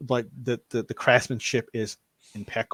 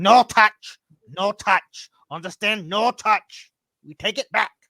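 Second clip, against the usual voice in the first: very high, loud, slow character voice; 10 semitones higher, 6 dB louder than usual. Voicing Gobby banging his staff and warning: Gobby character voice. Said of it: "bangs on the top of it and kinda holds it like".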